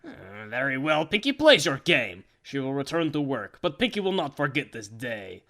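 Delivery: low, soft, brooding threat; quiet menacing vow. Acted. Pinkie softly vowing revenge on the boss. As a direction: mutter it like a sulking villain plotting payback.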